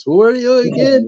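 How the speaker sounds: mock baffled high voice; high confused question. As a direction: squeak it out like a baffled guy. Retold confused scammer.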